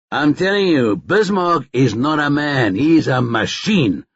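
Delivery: a mildly vehement rugby fan, pitch up; insisting on his point with a touch of heat; a hint of heated rugby argument.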